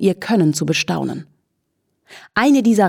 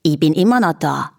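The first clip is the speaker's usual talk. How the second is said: cooing flea. A narrator's reading. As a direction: coo it teasingly at the horse. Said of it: "säuselte der Floh".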